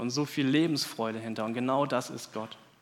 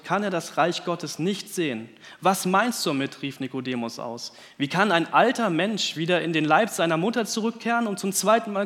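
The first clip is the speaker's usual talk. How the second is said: scripture reading. Acted. Preacher reading John three to the church, lively scripture reading. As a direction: lively read of Jesus and Nikodemus dialogue.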